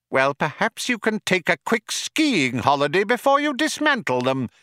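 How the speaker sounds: high, acid mouse voice. Acted. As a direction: needle him with acid sarcasm. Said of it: "said Frankie acidly".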